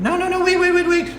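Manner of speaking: high, urgent tiny pixie calling; tiny voice crying out to stop. Acted.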